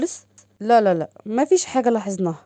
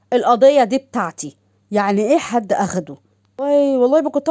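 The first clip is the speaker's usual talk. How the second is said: outraged; 4 dB louder than usual. Acted. Officer outraged file was taken.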